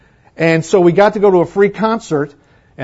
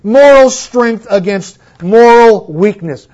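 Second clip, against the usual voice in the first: loud, high oratorical reading; loud, sweeping declamation; grand reading; 7 semitones higher, 8 dB louder than usual. Retold or imitated. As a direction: read it like a Victorian orator. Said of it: "resumes quoted reading".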